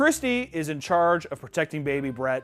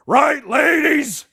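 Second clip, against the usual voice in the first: high, loud, slow rallying sneer; mock mean girl; 13 semitones higher, 10 dB louder, much slower than usual. Imitating the bully calling to the girls, high and loud. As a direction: call to the other girls, mocking.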